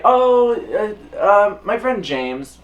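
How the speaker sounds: high, loud flustered stammer; nervous. Retold or imitated. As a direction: caught off guard, stalling for words. Nervous self, put on spot.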